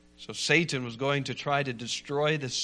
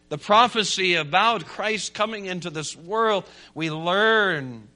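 ringing, declarative sermon delivery; emphatic preaching; 5 semitones higher, 6 dB louder than usual. Real, not acted. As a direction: preach it with conviction, landing each key word.

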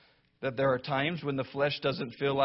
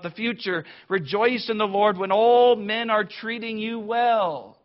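raised, sarcastic mock reading of a false verse; mock misreading; 5 semitones higher, 6 dB louder than usual. Preacher mocking a false version of the verse, loud and sarcastic. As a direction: parody what the text does not say, loud.

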